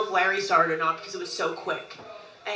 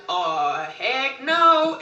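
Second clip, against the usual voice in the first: mock outburst; 6 semitones higher, 9 dB louder, much slower than usual. Robin voiced through Mom, refusing.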